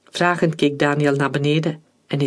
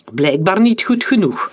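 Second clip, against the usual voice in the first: scornful jab, a little louder and higher; mocking; 5 semitones higher, 4 dB louder than usual. Major-general mocks the fallen captain, sneering. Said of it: "antwoordde de majoor-generaal spottend".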